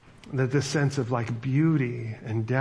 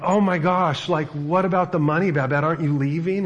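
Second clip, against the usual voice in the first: higher, louder, urgent questioning; mock-alarmed, pitched up; retold astonishment; 4 semitones higher, 4 dB louder than usual. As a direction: act out a flustered friend blurting questions. Martine worried Babette will leave.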